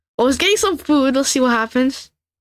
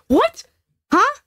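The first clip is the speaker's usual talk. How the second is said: disbelieving what; 8 semitones higher than usual. Real, not acted. Gets poop, others get apples.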